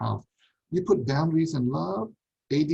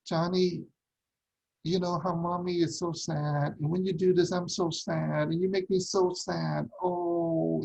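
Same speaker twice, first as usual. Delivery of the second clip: guilt-tripping mommy; 4 semitones higher than usual. Retold or imitated. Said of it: "the parents say things".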